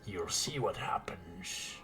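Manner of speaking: slow threatening whisper; menacing whisper. Acted. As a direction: hiss the threat with a grin. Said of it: "As he grins his teeth".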